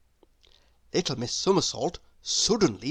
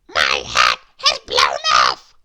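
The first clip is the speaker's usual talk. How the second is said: much lower, loud, slow shout down the phone; deep booming shout; 9 dB louder, slower than usual. A narrator's reading. A caller on the phone shouting to Little Miss Somersault, deep and loud. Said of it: "said a voice at the other end".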